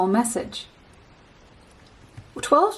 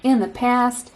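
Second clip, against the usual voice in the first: "In the past" in a light put-on foreign accent, vowels stretched; mock accent. Shown as a demonstration. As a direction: replay the stray accent on "In the past" playfully. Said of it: "someone you know has this accent".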